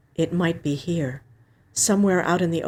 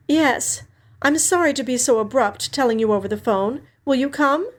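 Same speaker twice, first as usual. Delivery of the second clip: put-on older sister Alex, gently breaking news; 7 semitones higher than usual. A narrator's reading. Sister on the phone telling Sonny their dad died, raised and sad.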